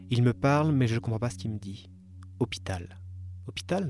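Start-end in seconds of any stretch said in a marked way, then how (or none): 2.4-3.0 «Hôpital» soufflé, chuchoté sans voix, en descendant; whispered word. Retold or imitated. Narrator quotes the man's advice. 3.5-3.9 «Hôpital?» lancé beaucoup plus haut, étonné, qui monte; surprised question. Retold or imitated. Narrator's surprised reply.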